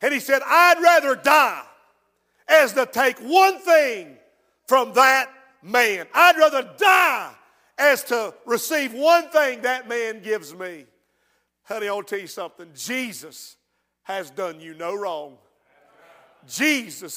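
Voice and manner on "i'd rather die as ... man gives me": loud and defiant, voicing the bitter son; defiant son's refusal. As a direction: spit it out like a son who refuses his father.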